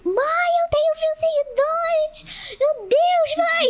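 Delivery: high, thrilled call to mother, laughing at the end; excited yell to mom. Retold or imitated. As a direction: retell a teenage squeal of joy to mom. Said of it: "Aí eu gritei assim".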